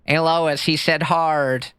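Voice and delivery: lightly attempted cartoon dad voice; half-hearted cartoon impression with a drawn-out ending; Peter Griffin. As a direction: loose imitation of a cartoon dad. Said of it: "the Peter Griffin".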